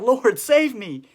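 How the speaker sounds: high, very loud, drawn-out shout; slow, full-voiced plea for help; desperate cry. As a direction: yell for rescue as if sinking. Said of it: "he cried out".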